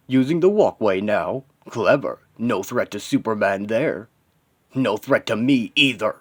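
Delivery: lightly voiced, dismissive villain; scornful villain. Villain belittling the hero's attack, scornful. Villain taunts injured hero.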